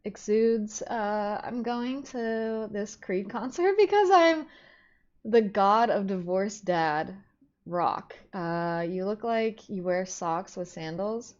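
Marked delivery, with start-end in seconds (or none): 1.4-11.3 divorced dad voice. Pretend. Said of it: "Your aura exudes".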